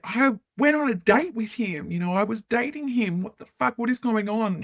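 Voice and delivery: pitched well up, bewildered and defensive; can't believe what she's hearing; incredulous protest. Retold or imitated. Answering her ex-husband's accusations on the phone, incredulous and high.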